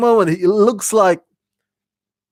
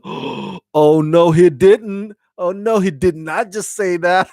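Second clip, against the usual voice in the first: shocked crew; 3 semitones higher than usual. Retold or imitated. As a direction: play the crew who can't believe it. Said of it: "the whole crew's like".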